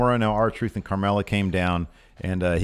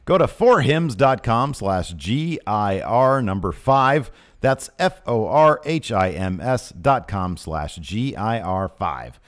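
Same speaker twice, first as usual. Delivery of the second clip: ad read; 2 semitones higher, 4 dB louder than usual. Real, not acted. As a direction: pitch the offer, spacing out the code. Host reads the offer.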